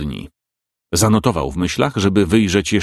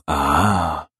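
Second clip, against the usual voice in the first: contented murmur; 3 semitones lower than usual. A narrator's reading. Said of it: "wymamrotał z zadowoleniem".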